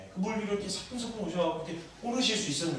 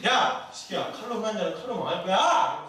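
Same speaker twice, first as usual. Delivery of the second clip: mildly raised, acted telling-off; comic mock scolding, only a little higher; 3 semitones higher, 3 dB louder than usual. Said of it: "이러면서 혼나고 또 깨지고".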